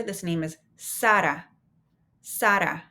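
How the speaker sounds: "Sara" with open a's, SAH-rah, tapped r; "Sara" said the Spanish way. Shown as a demonstration. Teacher modelling the student's name in Spanish. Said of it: "No Sarah here".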